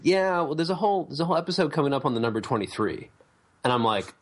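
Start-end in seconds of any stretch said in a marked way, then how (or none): 0.0-3.1 imitating a friend. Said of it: "And he's like".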